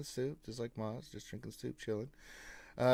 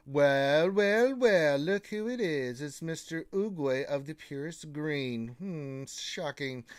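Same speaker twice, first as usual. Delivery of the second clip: mock surprise; slower than usual. Mock surprise at familiar roster guest.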